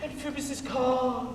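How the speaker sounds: booming, slow Hercules rant; ranting tyrant. Acted. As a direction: bellow it like a stage tyrant. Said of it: "This was lofty".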